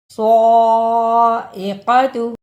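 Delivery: साइक़तु slowly, thick emphatic s and long dark aa; heavy saad. Shown as a demonstration. Teacher modelling the word, slow heavy-s साइक़तु. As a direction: thicken and stretch the opening of साइक़तु. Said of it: "स्वाद को मोटा पढ़ना है".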